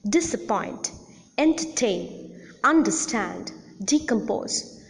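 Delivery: Disappoint, entertain, understand, decompose with a lighter stress on the first syllable, main on the last; secondary stress on first syllable. Shown as a demonstration. Teacher shows secondary accent on the first syllable of Disappoint, entertain, understand, decompose. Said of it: "the first syllable".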